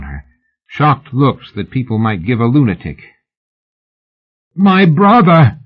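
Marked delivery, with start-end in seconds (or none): 4.5-5.6 high, slow anguished cry; high-pitched, stretched-out outcry; shouted plea. A narrator's reading. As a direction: call it out desperately across the hall. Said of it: "she shouted".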